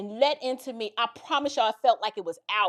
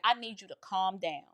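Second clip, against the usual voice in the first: retold calming; 5 semitones lower, 8 dB quieter than usual. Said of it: "My niece starts panicking".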